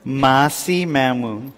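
very slow, drawn-out "Masi Mamu"; careful repeat-after. Shown as a demonstration. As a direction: sound out "Masi Mamu" slowly as a learner. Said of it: "I need to know this".

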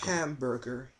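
softly mumbling Hamburger, barely voiced; quiet hamburger. Agent obeying a rude caller, said quietly. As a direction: say Hamburger under your breath, meekly. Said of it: "Just say hamburger".

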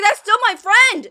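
urgent voice sticking up for a friend; protective outcry. Acted. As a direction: cry out in defence of a friend. Voices a character defending his friend.

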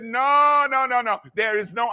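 high, firm rebuke to the devil; defiant refusal. Retold or imitated. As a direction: refuse it outright. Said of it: "I said".

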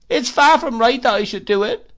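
high, loud plaintive widow's whine; Missus Gummidge. Acted. Mrs Gummidge pities herself at dinner, high whine. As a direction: whimper it like a self-pitying old widow.

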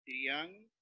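"triángulo" slowly broken into trián-gu-lo; syllable by syllable. Shown as a demonstration. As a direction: say "triángulo" with a pause after each syllable. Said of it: "Entonces, al separar".

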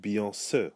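"Beyoncé" ending in "suh" instead of "say"; "Beyoncé" as bee-on-SUH; unaccented final E. Shown as a demonstration. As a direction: close the last vowel of "Beyoncé" to an "uh". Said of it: "if it were not there, then it would be".

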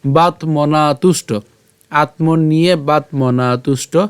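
slow Sanskrit recitation in small pieces; verse read in parts. Shown as a demonstration. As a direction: recite slowly, spacing each word for learners. Models the verse slowly. (ধীরে ভেঙে শ্লোক পাঠ)

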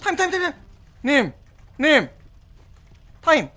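frantic shouting. Real, not acted. Frantic calling during fight.

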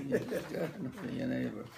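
soft, laughing repeat. Real, not acted. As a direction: say it through laughter.

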